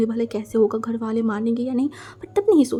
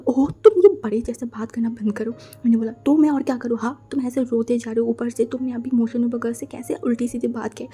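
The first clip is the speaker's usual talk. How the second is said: scolding friend. Acted. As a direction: tell her off, then wave her away. Narrator voices scolding friend.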